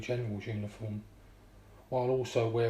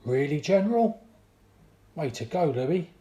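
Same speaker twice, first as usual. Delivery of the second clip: excited; 5 semitones higher, 7 dB louder than usual. Acted. Excited reaction to great news.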